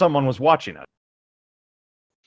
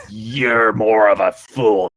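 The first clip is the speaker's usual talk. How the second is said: very slow, drawn-out taunt; sneering; 4 dB louder, much slower than usual. Acted. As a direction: drag the insult out slowly. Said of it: "The sneering voice called again".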